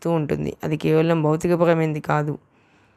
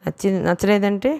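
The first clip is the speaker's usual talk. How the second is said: playful tease, pitched higher; teasing; 4 semitones higher than usual. Acted. Sindhu teasing Teja about his looks, higher playful tease. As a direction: tease him with a mock no. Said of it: "కొంటెగా అంది".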